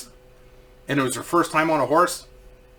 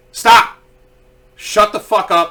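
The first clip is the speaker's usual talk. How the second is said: louder, sharp mock yell of stop; imagined yell; 5 semitones higher, 7 dB louder, slower than usual. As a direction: bark it at the screaming women in your head. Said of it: "I didn't say "Shut the fuck up," but I wanted to".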